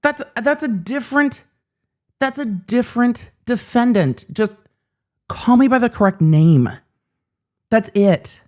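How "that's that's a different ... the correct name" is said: mock defendant voice. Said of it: "he's just like".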